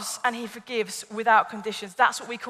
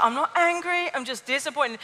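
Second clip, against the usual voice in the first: mock disappointment; 2 semitones higher, 3 dB quieter than usual. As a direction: lightly imitate a let-down parent. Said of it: "whoever it is is like".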